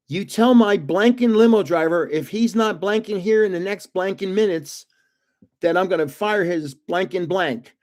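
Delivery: mildly heated mock phone rant; retold angry tirade. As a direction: imitate someone chewing out an assistant by phone.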